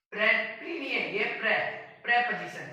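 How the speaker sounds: प्रीपोजिशन begun "pre", not "pri"; teacher fixing the first syllable; correct pronunciation. Shown as a demonstration. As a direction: stress the short "pre" in प्रीपोजिशन. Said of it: "बोलने का तरीका है वो भी आपको change करना पड़ेगा".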